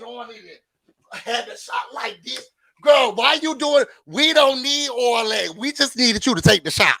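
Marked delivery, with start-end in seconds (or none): 2.8-7.0 exasperated. Real, not acted.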